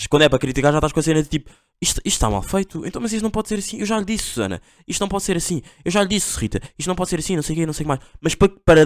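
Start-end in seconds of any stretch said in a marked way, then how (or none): 1.8-8.0 high-pitched, slightly hushed mock scolding; nagging critic. Boss scolding Susana and Rita, high mock-nagging voice. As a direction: mimic a fussy boss who always finds fault.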